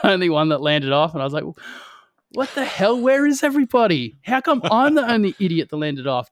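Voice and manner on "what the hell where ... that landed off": high, bewildered cry; confused disbelief. Retold or imitated. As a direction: sound lost and baffled. Confused after landing alone.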